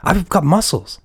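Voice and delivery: lightly voiced gruff action hero; lightly played muscle man; Mark.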